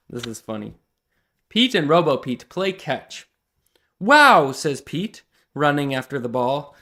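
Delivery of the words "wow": loud, high wow; surprised cheer; amazed wow. Acted. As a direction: blurt it out in amazement. Pete amazed at the throw.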